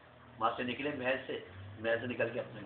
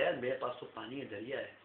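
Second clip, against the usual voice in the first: quiet aside; 6 dB quieter than usual. Acted. Hero reassuring himself.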